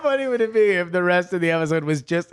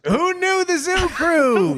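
slow punchline; 9 semitones higher, slower than usual. Acted. Slow rhyming joke.

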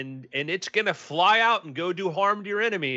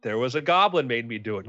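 mock excuse; 7 semitones higher than usual. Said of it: "It's like".

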